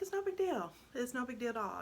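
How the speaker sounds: high, breezy brush-off of a worry; retold mom making light of it; upbeat reassurance. Mother telling her crying son it doesn't matter, upbeat and reassuring.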